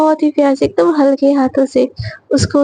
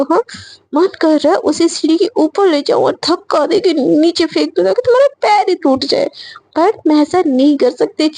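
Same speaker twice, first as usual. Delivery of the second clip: muttered cursing. Acted. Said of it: "दिल ही दिल में गाली दे रही होती".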